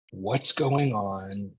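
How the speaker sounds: drawn-out, tightened-up question; slow, uneasy asking; tense, slow question. Acted. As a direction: stretch the words out slowly. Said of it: "tighten up in your chest in this moment".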